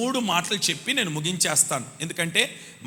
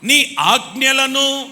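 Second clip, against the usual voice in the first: each word drawn out for the congregation to repeat; slow call for the crowd to echo; slow dictation; 3 semitones higher, 4 dB louder, much slower than usual. Shown as a demonstration. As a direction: lead the line slowly, word by word. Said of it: "తొమ్మిదవ అధ్యాయం ఇరవై తొమ్మిదవ వచనం".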